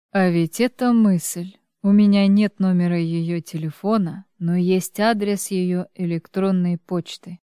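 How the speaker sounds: ordinary delivery, nothing marked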